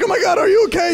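high, loud comic alarm; mock worried mom. Acted worried mother on phone.

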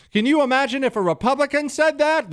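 high, loud, whiny mock outrage; hammed-up whiny conservative; mock conservative response. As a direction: parody a hand-wringing Republican, pitched high. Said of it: "the standard G O P or the standard, uh, conservative response".

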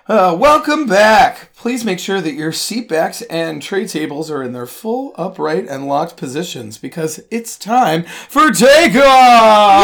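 slow, drawn-out cabin announcement; flight attendant. Pretend.

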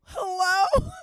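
put-on high, loud, innocent little-girl hello. Woman greeting approaching cop, little-girl act. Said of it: "put on my little girl face".

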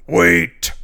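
loud, sudden wait; a scary voice halts the wedding; scary call. A narrator's reading. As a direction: cut in loudly to stop everything. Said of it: "said a scary voice".

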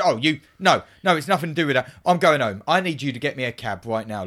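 imitating a huffy outburst; mock offended. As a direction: act affronted and insist on leaving. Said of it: "Like he's been offended".

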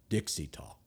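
whispered aside; soft whispered aside. Real, not acted. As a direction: hush it to a whisper. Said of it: "unvoiced whisper".

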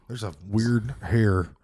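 talking with a finger up the nose; slow, with a finger in the nostril. Real, not acted. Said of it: "knuckle deep in my left nostril".

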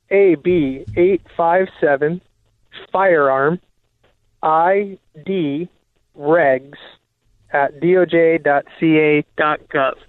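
slow, carefully spelled-out address; over enunciating. Shown as a demonstration. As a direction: read it out slowly for old listeners. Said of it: "Give, give out that address one more time slowly for old people".

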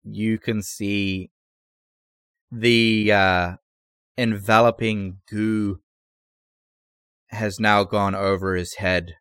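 unhurried narration, letting each image land; game master narration. Acted. Game master sets the scene.

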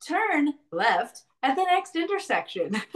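slow recorded navigation voice; slow, even sat-nav prompt; GPS voice. Pretend. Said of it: "it'll be like".

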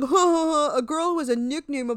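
scoffing laugh. Retold or imitated.

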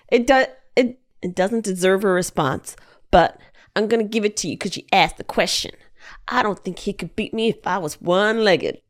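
lightly attempted athlete impression; a hint of a Southern accent; half-hearted impersonation of a basketball star's reply; Michael Jordan impression. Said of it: "Does that not sound like Michael Jordan?".

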